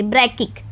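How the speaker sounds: ब्रैकिक said as two clear parts, BRAK-ik; ब्रैकिक pronounced. Shown as a demonstration. Teacher showing how to read a hard term, ब्रैकिक clearly sounded out. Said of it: "इसको पढ़ेंगे".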